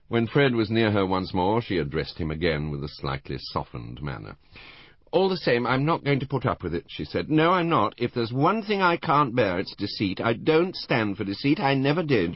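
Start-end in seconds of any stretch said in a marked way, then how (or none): 5.1-12.3 put-on high, loud, tipsy old lady bristling; a boozy old dear standing on her dignity, pitched up; tipsy indignant old woman. Tipsy Mrs Rival indignant.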